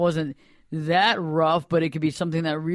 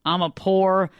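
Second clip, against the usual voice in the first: scornful quoting; slower than usual. Acted. Scornfully repeating the pitying phrase.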